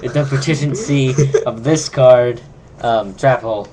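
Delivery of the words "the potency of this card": "potency" said stubbornly wrong, like "prrotishency"; "potency" with a stray r and a long middle; own pronunciation. Real, not acted. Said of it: "I'm going to pronounce it the way I want to".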